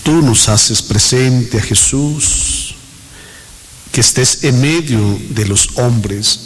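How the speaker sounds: prayer. Real, not acted. Recites a prayer to the Holy Spirit.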